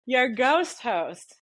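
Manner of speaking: high, slow spooky host title; Ghost Host voice. Shown as a demonstration. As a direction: draw it out like a haunted host. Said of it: "there we go. I got it".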